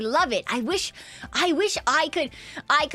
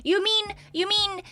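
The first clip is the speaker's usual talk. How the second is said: excited Kronk rant; 6 semitones higher than usual. Real, not acted. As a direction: rattle on like an excitable fan. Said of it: "hyperactive vibes is Kronk".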